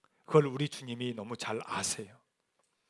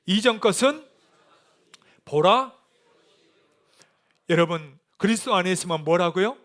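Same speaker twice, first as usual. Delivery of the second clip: raised, emphatic sermon delivery; forceful preaching; 7 semitones higher, 7 dB louder than usual. Real, not acted. Preacher urging congregation that the old has passed, forceful. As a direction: drive the scripture home to the congregation.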